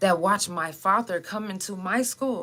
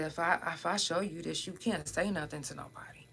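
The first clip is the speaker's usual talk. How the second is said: retold whisper; 9 dB quieter than usual. Secret confession to friend.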